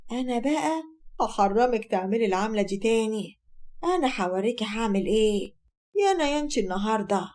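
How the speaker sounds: understated, scheming threat; sly malice. Acted. Mother-in-law plotting against daughter-in-law with pills, understated malice. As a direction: plot revenge with a touch of malice. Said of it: "بتقول بخبث".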